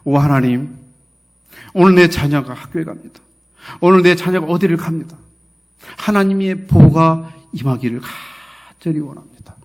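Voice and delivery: earnest demonstration of a prayer; prayer as a preacher would model it. Shown as a demonstration. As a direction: pray it out firmly, drawing out the plea at the end. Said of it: "어떻게 기도해야 돼요".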